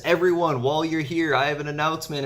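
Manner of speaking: a lightly voiced ruler making an announcement; mock grand announcement. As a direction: proclaim it like a lord before his court, half-acted. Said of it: "Orochi stands up and he says".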